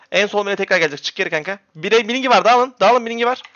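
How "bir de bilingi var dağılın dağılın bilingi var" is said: barked order. Real, not acted. Shotcaller warns team mid-fight.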